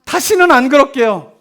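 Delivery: slow mock childish promise; promising child. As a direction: lightly imitate a child promising mom. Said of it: "그리고 뭐라 그래요?". (다짐하는 아이를 살짝 흉내)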